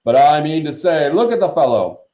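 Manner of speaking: loud, high, blustering call; hearty huntsman shouting. A narrator's reading. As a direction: call out dismissively over the crowd. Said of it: "shouted Sir Patrick's head".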